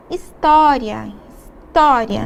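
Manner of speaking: história said slowly, leaning on the tônica syllable TÓ; stressed história. Shown as a demonstration. Teacher to students, stressing the accented syllable in história. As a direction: stretch out história and hit TÓ. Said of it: "Na palavra também".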